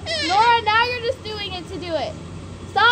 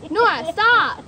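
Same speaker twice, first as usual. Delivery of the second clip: stern scolding; 7 dB louder, slower than usual. Real, not acted. Scolds the child.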